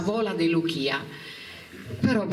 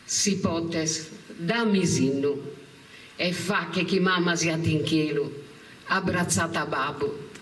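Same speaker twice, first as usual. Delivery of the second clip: poem recital. Acted. Recites her poem to her mother.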